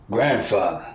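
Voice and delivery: Grandfather said back in a furious mocking echo; furious repeating. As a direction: spit Grandfather back scornfully. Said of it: "completely furious while repeating".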